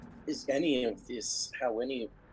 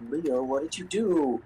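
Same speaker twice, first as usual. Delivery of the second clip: louder accusing question; mock accusing yell; 5 dB louder than usual. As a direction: demand it louder. Escalating accusation.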